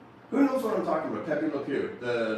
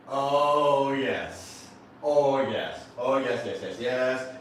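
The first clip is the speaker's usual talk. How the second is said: moaning oh yes; much slower than usual. Acted. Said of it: "you're like".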